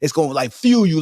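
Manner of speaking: ordinary delivery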